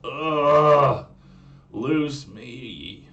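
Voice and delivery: put-on loud, exasperated Valley Girl groan; Valley Girl, totally over it; Valley Girl accent. Mermaid whines at her captor in a Valley Girl accent. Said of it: "I'll do it again".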